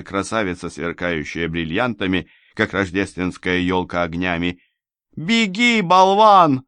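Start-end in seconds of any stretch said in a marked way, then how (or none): 5.1-6.6 high, urgent shout; cried out. A narrator's reading. Rescuer urging the stunned man to flee, high shout. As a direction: yell it high to get him moving. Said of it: "выкрикнула она".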